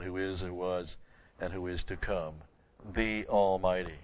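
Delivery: a touch of solemn reading voice; scripture reading. Acted. Preacher reading the Alpha and Omega verse, lightly solemn.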